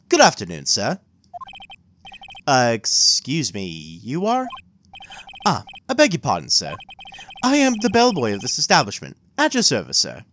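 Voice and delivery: put-on polite old-fashioned bellhop; lightly voiced formal concierge; concierge bellboy voice. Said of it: "what's a good bellboy voice? concierge".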